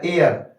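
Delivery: एयर as EH gliding into UR; teacher sounding out एयर as EH-ur; diphthong demonstration. Shown as a demonstration. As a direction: model एयर, EH sliding into a schwa and R. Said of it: "ई और एक उल्टा six".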